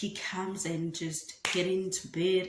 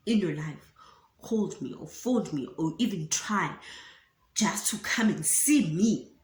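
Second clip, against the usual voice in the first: accusing rant. Retold or imitated. Acted quarrel with boyfriend.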